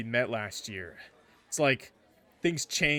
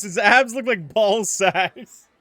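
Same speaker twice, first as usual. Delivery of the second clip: mocking jab; 8 semitones higher, 11 dB louder, slower than usual. Real, not acted. Mocking reaction to a picture.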